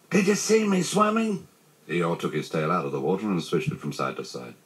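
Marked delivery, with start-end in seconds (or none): 0.1-1.5 very high, stretched little squeal; tiny proud voice; squeak. A narrator's reading. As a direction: squeak it, eager for praise. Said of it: "squeaked Roo".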